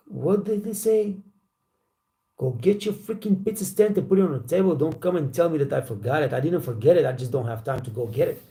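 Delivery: reliving the blow-up at the boss, half-performed; retold angry outburst. Waiter snapping back at the new manager, retold annoyed outburst. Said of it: "I'm really freaking out".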